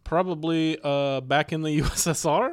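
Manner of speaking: put-on comic Russian accent. Shown as a demonstration. Guest introduces himself as the flatmate, mock Russian accent. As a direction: play a comrade in mock Russian. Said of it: "this is the best accent".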